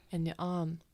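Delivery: soft, breath-only voice; whispered tease. Acted. Tavamil needles Lucian about his arm, whispered tease. Tavamil keeps teasing quietly.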